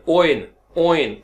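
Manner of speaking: ओइन drawn out slowly as o gliding to i; diphthong drill. Shown as a demonstration. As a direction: glide the ओइन sound slowly. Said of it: "जो ओई के साथ है". (ओई की धीमी अदायगी)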